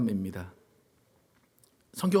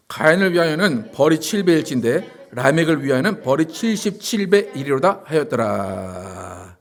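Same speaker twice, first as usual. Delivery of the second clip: measured congregational verse reading; scripture reading; 3 semitones lower than usual. Acted. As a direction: read the verse aloud, drawing out the last word long and low.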